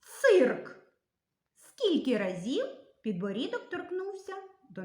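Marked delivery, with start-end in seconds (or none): 0.0-0.8 «цирк» said high and loud, drawn out on the vowel; demo pronunciation. Shown as a demonstration. Teacher showing kids how to say «цирк», loud demo. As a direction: sound out «цирк» clearly for the class. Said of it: "і вимовляємо".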